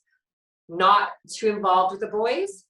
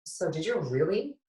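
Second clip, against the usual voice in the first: higher-pitched, mildly stunned question; retold shaken disbelief; 4 semitones higher than usual. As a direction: re-enact asking in disbelief, pitch lifted. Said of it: "I was so shook".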